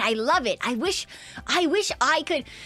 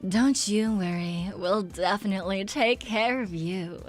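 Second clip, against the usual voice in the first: lower, slow, smooth announcer; supermarket PA announcer; 5 semitones lower, 4 dB quieter than usual. Shown as a demonstration. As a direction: reassure callers like a store PA. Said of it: "the supermarket P A announcer voice".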